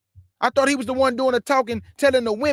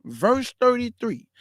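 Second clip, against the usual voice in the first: slow, deliberate reading of the verse number; real slow; slower than usual. Shown as a demonstration. Preacher rereading slowly for people in the back, slow. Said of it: "I'ma read it again real slow".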